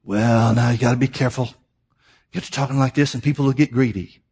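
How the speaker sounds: a hint of a cautioning doubter; cautious objector.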